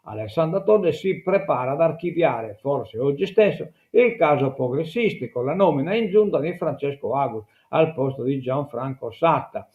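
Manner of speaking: reading an article aloud to listeners; measured newsreader delivery; news read. Acted. (lettura di notiziario)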